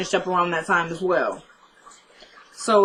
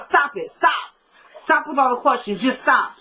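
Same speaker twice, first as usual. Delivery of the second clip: higher-pitched, insistent mock yell at no real volume; exasperated retold outburst, pitched up; 4 semitones higher than usual. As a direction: act out her cutting off the questions. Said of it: "didn't mean to yell at you".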